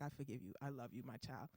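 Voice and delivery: very low, soft, forgiving voice; God. Acted. God forgives the pleading patient, low and tender. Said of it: "I hear this deep voice".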